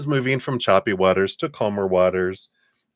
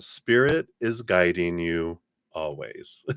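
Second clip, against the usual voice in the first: slow, deliberate inspirational reading; card read aloud. Acted. Reader sharing an uplifting card message with a client, deliberate read-aloud. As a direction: read it out with measured emphasis on key words.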